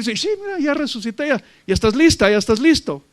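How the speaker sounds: high, eager voice bursting with joy; preacher voicing the risen dead, high and excited; excited resurrected believer. Resurrected dead announcing joyfully.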